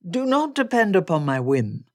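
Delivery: loud, emphatic gentleman's reply; Darcy insistent. Acted. Darcy answers Elizabeth's doubt, loud and insistent. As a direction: turn her refusal round with force.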